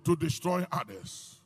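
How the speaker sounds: loud, ringing sermon delivery; fiery pulpit preaching. Real, not acted. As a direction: preach it out to the congregation. Preaching at full force.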